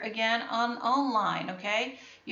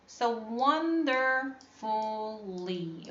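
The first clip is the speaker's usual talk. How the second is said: slowed for the class; slower than usual. Shown as a demonstration. Teacher to pupils, slowly modelling wonderfully. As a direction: draw wonderfully out slowly, syllable by syllable. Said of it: "We can break it down like this".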